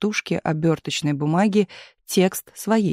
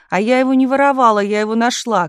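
high, loud, rushed denial; crying out; 6 semitones higher, 6 dB louder than usual. A narrator's reading. Telegraph operator denying theft to chief, crying out. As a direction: protest fast in a raised voice. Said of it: "кричала несчастная женщина".

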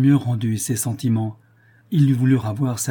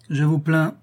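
cold pity; coldly; 5 semitones higher than usual. A narrator's reading. Marquis answers coldly, icy pity. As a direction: say it with icy contempt. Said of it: "dit froidement le marquis".

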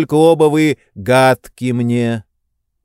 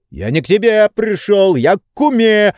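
howling protest; 9 semitones higher than usual. A narrator's reading. Tarantyev protesting to Zakhar, high howling yell. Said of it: "вопил Тарантьев".

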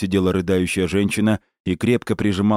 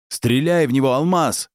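urgent shouted command; 7 semitones higher than usual. A narrator's reading. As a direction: shout the order across. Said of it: "крикнул Гарик".

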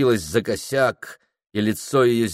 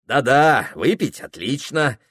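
ordinary delivery, nothing marked

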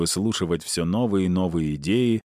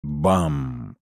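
high bursting boom; 7 semitones higher than usual. A narrator's reading. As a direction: slam the word like a falling door. Door crashing.

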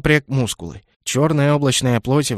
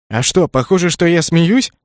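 louder, sharp comeback; irritated retort; 4 semitones higher, 5 dB louder than usual. A narrator's reading. Kenneth flaring up at the dragon, louder. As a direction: bristle back at him.

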